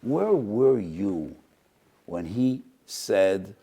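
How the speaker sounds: slow, grave divine questioning; a hint of the heavenly court questioning the students; heavenly rebuke. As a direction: let each word land like a judgment. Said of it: "they were asked by HaKadosh Baruch Hu".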